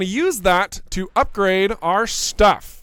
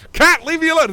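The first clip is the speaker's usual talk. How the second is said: mock annoyed pilot; 10 semitones higher, 6 dB louder than usual. Pretend pilot scolding a cat.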